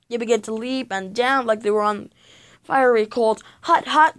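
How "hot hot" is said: high, loud cry of pain; boy hopping on fake lava, yelping high and loud; shout. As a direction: yelp it like your feet burn. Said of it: "George's mouth shouted".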